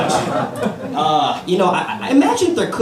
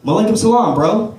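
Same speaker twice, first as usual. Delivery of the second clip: mock greeting back; 5 semitones higher, 5 dB louder than usual. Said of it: "I looked back at the guy and I said".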